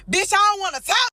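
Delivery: loud, high, furious retelling; angry outburst. Retold or imitated. Raging at her ex as she recalls the fight, loud. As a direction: blast it at him, no talking allowed.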